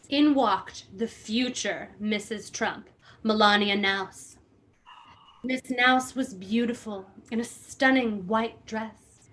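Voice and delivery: reading a memoir aloud with mock gravity; lightly hammed-up reading of a memoir; dramatic book reading. Host reads Ed Russo's book to friends, mock-dramatic reading.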